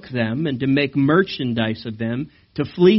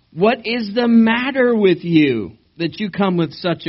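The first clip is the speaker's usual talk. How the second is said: shouted challenge; 7 semitones higher, 4 dB louder than usual. Acted. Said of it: "they shouted to the people of Dan".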